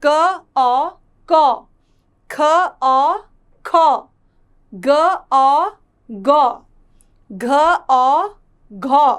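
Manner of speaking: अ here said as औ, the blend like कौ; loud separate syllables, each blend ending in an open "au"; au vowel drill. Shown as a demonstration. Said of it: "इसका उच्चारण भी अ होता है". (औ की मात्रा का उच्चारण)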